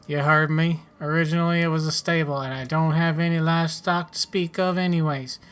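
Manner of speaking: a touch of a folksy settler character; lightly voiced farmer. Settler tells newcomer where to sell spares, lightly voiced farmer. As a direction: lightly act a helpful farmer advising a newcomer.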